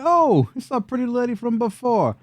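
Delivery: high, taunting goblin voice; swooping high brute voice. Acted. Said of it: "So Goblino brute number three".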